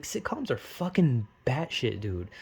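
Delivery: weirdly drawled rant; odd slow delivery. Real, not acted. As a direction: let the words come out strangely by accident. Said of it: "why'd I say it like that?".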